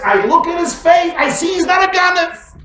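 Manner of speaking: high, loud insistent quote; excited retelling. Acted. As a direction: declare it with fervour. Husband quoted by excited wife.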